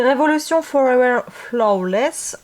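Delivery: English brand name in a French accent. Real, not acted. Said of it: "désolée pour mon accent".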